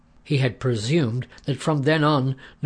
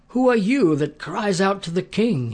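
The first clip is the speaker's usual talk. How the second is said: higher, louder irritated shout; grumpy call back; 8 semitones higher, 4 dB louder than usual. A narrator's reading. Abner just woken, shouting back crossly at David. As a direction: bark back, woken and annoyed. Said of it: "very much out of sorts".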